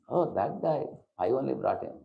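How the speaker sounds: mock boasting, high start then dropping; proud. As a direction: lightly play a boastful devotee belittling another. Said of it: "People speak like that".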